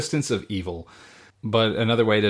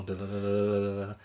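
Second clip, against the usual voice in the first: soft sung drum roll, da da da; 3 semitones lower, 9 dB quieter, faster than usual. Pretend. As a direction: hum a little drum roll build-up. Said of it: "Drum roll".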